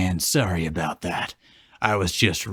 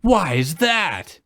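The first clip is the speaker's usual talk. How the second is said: higher, louder, laughing mock Elsa; 11 semitones higher, 4 dB louder than usual. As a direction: play Elsa with a giggling sneer. Voicing Elsa mocking Olaf.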